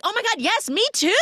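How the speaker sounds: high, loud thrilled squeal; mock giddy squeal; excited squeal. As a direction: gush with delight. Adria excitedly joining.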